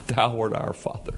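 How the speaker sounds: soft, hushed prayer to a father; intimate. Shown as a demonstration. Quiet prayer of Isaiah to God as Father, hushed and intimate. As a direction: speak it close, like a private word to God. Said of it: "he's having a little conversation, an intimate conversation".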